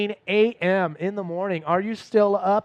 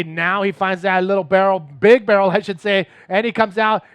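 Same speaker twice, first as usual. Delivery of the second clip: loud, rising call of the barrel; excited play-by-play; 7 dB louder than usual. Real, not acted. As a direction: call the wave as it happens, loud. Calling a big barrel live.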